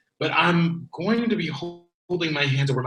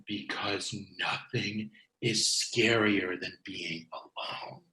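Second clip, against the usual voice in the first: lower, softer and slow, fading to a whisper on the last word; spooky hush; 7 semitones lower, 7 dB quieter, slower than usual. Acted. Bryce leaning into Alaric's face, an eerie whisper. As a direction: lean in and breathe the final word.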